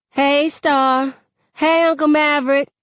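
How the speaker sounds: put-on high-pitched teen girl greeting; chirpy teen girl. A narrator's reading. Kenya greeting Starr and her uncle in the store, chirpy teen girl. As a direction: call out a high, lively hello.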